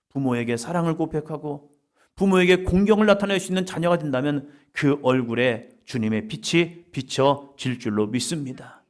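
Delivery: ordinary talk, nothing marked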